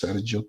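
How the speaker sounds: "Sergio" with a soft j sound; Italian pronunciation. Shown as a demonstration. Host guessing the Italian version, "Sergio" with a soft j. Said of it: "Maybe in Italian, it's Sergio too".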